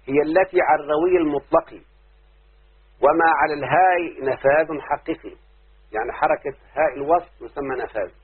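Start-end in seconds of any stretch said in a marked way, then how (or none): 3.0-5.4 recited verse. Shown as a demonstration. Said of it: "الناظم يقول".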